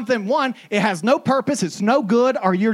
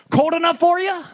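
high chirpy local; stranger's small talk; 10 semitones higher, 4 dB louder than usual. Retold or imitated. Stranger at the gas station, chirpy. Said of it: "They're like".

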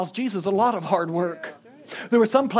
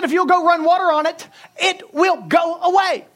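high, loud, slowing to hammer each word; acted-out insistent shout; forceful order; 12 semitones higher, 8 dB louder than usual. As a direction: drive the instruction home at full voice. Retelling his insistent order.

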